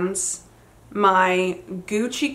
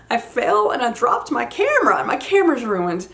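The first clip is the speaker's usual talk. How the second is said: higher, mock-tearful wail; retold crying; 4 semitones higher than usual. Crying daughter telling dad about the fallen camera, mock-tearful and higher. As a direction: imitate yourself blurting it out in tears. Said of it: "I'm crying".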